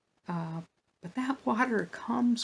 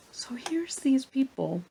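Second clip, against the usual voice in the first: confiding whisper; 7 semitones higher than usual. Real, not acted. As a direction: lean in and whisper it. Aside to listeners.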